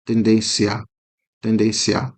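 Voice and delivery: tendência twice, softly, the i weak and gliding into the a; unstressed i. Shown as a demonstration. Teacher repeating tendência for students, unstressed i. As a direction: say tendência, tendência with no stress on the i. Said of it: "não é um I tônico nesse caso".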